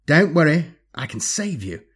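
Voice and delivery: high, loud mock reassurance; grinning villain. A narrator's reading. Alien thing offering to save its prey, grinning villain. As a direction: open high and projected, then drop the volume. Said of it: "the thing grinned again".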